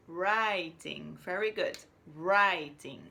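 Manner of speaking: loud, cheerful praise; excited praise. Real, not acted. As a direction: celebrate the right answer. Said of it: "excited praise for right answer".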